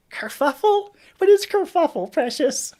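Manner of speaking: high, squeaky creature impression; Smeagol. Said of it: "the guy who did Smeagol ... reading Trump tweets".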